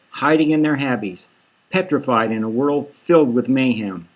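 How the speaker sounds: Hammerman warning. Acted. Tough cop warning the witness.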